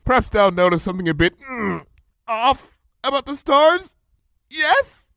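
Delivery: high, lofty royal voice, airy; haughty royal speech, sly at the end; regal princess. A narrator's reading. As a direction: play the grand princess feigning ease. Luna's royal voice.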